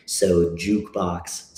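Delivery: slow "jukebox", weight on "juke"; stress on first syllable. Shown as a demonstration. Demonstrating song cadence, stress on "juke". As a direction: press "juke" and let "box" trail. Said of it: "stress is on the first syllable".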